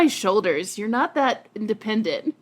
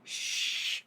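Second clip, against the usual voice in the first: soft unvoiced hush; quiet him down with a hush; 13 dB quieter than usual. Real, not acted. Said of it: "hushing the cat".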